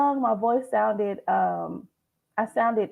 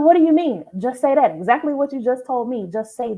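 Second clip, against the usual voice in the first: retold exasperation, higher and louder; exasperated coach; 3 semitones higher, 3 dB louder than usual. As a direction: push back at the client in mock disbelief. Coach reacting to clients' overthinking.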